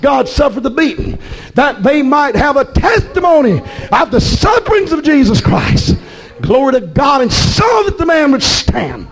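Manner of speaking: emphatic revival proclamation; fervent preaching. Real, not acted. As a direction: proclaim it with growing fervor. Preaches at full force.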